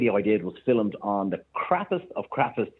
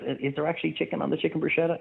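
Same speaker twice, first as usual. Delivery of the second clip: naive customer question; 7 semitones higher than usual. Retold or imitated. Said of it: "And she goes".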